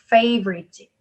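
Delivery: favorite with a strong first A; stress on first syllable. Shown as a demonstration. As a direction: slowly lean on the opening syllable of favorite. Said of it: "A 이름절 강세". (favorite의 첫 음절 a에 강세)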